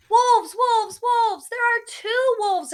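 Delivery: high, loud alarmed shout; yelling. Acted. Shepherd boy yelling to the townsfolk, high and loud. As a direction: cry wolf to the whole town. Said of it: "this time yelling".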